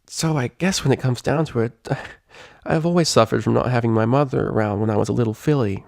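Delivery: Rainbow Dash, murmuring. Acted. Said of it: "Rainbow Dash murmured".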